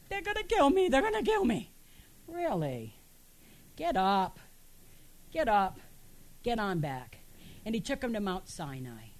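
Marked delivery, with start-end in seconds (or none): 0.1-1.7 high, whiny mock crying; mock panicked wail. Preacher acting Elijah answering God, mock panicked wail. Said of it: "he starts to cry". 2.3-7.2 God. Acted. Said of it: "God shows up and says".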